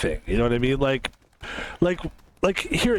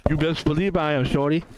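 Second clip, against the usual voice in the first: fake Jason Williams voice. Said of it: "why you talking like that, shorty".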